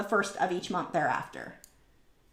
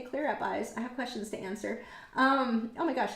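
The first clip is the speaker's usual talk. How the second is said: ordinary talk, nothing marked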